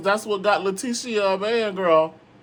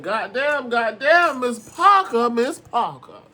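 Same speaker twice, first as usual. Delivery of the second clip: hyped compliment; 4 semitones higher, 5 dB louder, slower than usual. Retold or imitated. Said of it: "I said".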